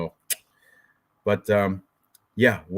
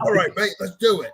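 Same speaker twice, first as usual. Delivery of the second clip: light attempt at an Australian accent; high, playful Aussie mate voice; 7 semitones higher than usual. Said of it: "I can't do the Australian accent".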